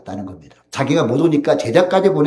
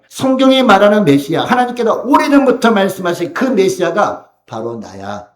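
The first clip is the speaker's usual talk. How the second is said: raised, emphatic voice of Jesus reassuring John; Jesus gently correcting; 5 semitones higher, 4 dB louder than usual. Acted. Jesus answering doubting John, emphatic and lifted. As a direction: speak as Jesus explaining who he is, pressing each phrase.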